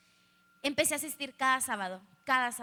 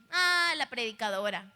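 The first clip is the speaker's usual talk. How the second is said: mocking. Friends making fun of the new preacher girl, mocking. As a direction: tease with mock-pious awe. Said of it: "se burlaban de mí".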